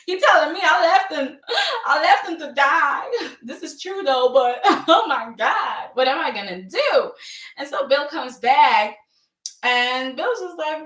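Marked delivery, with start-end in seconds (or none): 0.0-7.1 loud, high mock panic; hammed-up frantic terror; shaken, panicking. Host as Liam seeing Vinny's ghost, acting out loud panic. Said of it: "Liam was really shaken".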